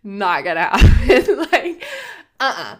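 a giggly thumbs-down brush-off; laughing refusal. Retold or imitated. Retelling refusing her friend's yoga invite, laughing. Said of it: "And I'm like".

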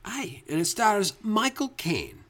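thick hammed-up Scottish accent; tipsy Scottish ghost rambling on. Ghost guest introducing the movie to the hosts, Scottish brogue.

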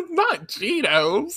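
slow, laughing mock outrage; laughing at the Cheetos idea, stretched out slowly. Real, not acted. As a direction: drag it out through laughter in protest. Laughing at snack suggestion.

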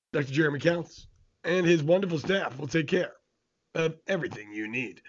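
upbeat, quick radio ad voice; sponsor ad read. Acted. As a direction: sell the pharmacy like a radio spot. Host reads the sponsor ad.

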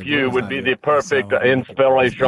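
slow put-on French accent; French accent demo. Shown as a demonstration. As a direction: coach deliberately in a mock French accent. Caller coaching in French accent.

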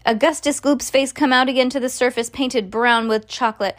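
ordinary delivery, nothing marked

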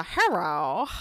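mock odd "hello" with a rise; lightly voiced weird "hello"; his weird hello. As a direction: imitate his strange greeting lightly. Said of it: "his weird voice that he does".

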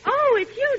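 high, loud, let-down oh it's you; disappointed surprise. Acted. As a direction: sound deflated that it's only him. Wife expects someone else at door.

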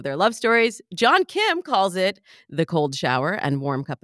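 upbeat host-read book promo. Acted. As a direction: sell the book with bright energy. Host reads her book promo.

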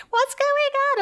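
high imitated kids' holler; kids shouting. Kids ask about their parents' row, high mock shout. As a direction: mimic children calling out over the yelling. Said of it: "the kids are like".

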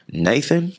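high, rising call of the name; grandmother's call. Retold or imitated. Grandmother calling grandson Nathan, imitated high, rising call. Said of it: "this is how she talks".

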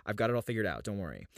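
brash mock certainty, pushing forward; cocky know-it-all. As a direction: play the overconfident know-it-all rushing ahead. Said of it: "It's like".

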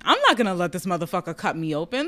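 outraged. Retold or imitated. Outraged at surgery demand.

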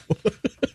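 short uneasy chuckle; nervous laugh. Real, not acted. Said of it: "That's a nervous laugh if I've ever heard one".

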